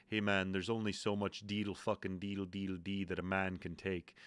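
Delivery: flat, level delivery, little pitch movement; deadpan. Retold or imitated. Friend answering about Irish bar music, deadpan. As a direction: say it matter-of-factly, unimpressed. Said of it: "he just kinda looked at me flatly and said".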